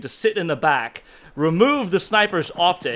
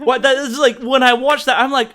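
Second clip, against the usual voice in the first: laughing disbelief; 9 semitones higher, 7 dB louder than usual. Real, not acted.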